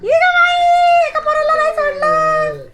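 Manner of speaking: a long, very high drawn-out cry of amazement; slow, very high, loud exclamation of disbelief; stunned exclamation. Real, not acted. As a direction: stretch the first words slowly in astonishment, then keep it high. Exclaims at the dog's antics.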